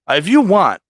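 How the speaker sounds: high, loud retold threat; mock-angry threat to the kid; snapping back. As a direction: fire it back like you've lost it. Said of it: "Like, I just snapped".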